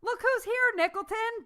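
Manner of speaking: high, loud boom across the bar; big tipsy welcome; booming greeting. A narrator's reading. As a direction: call out the name, booming and tipsy. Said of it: "Bennett boomed".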